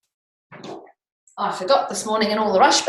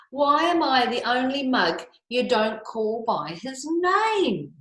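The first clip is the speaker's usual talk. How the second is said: ranting koala; 4 semitones higher, slower than usual. Acted. Teacher reading the picture book to the class, as an indignant koala. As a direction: rattle off the koala's grievance, exasperated.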